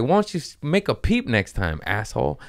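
high start, falling to a jab; mock-scold, starting high-pitched; exasperated scolding. Comedian scolding a silent audience member, exasperated jab.

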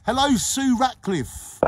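high, slow sung hello; sing-song greeting. Shown as a demonstration. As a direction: croon the hello out. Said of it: "I can't say that name".

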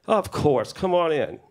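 high, retold breezy invitation; calling out. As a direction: imitate calling back through a closed door. Louis answers through the door.

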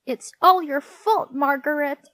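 high, loud accusing shout; Henry's angry shout. A narrator's reading. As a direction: shout the blame at a rival child. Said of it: "shouted Henry".

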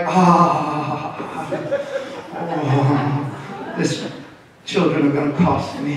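mock dismay breaking into laughter; laughing groan. New father over the broken trophy, laughing in mock despair. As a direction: laugh through a rueful complaint.

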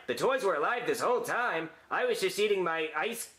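mock surprised movie line; same startled delivery, again for the camera; take three of the line. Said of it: "And action!".

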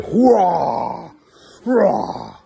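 loud, high hurrah cheer. Real, not acted. Cheering the kids.

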